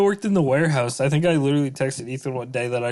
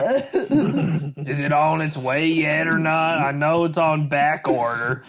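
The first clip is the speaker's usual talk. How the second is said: impatient customer; slower than usual. Pretend. Pretend angry caller, slow.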